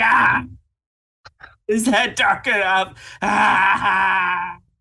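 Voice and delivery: sudden, short, crowd-like screamed "ah". Playing a character smashing a toy train, simulated screams of people. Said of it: "he simulates the scream of people".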